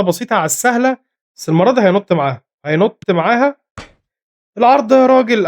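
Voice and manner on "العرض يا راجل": excited shout. Real, not acted. Gamer yelling at his striker.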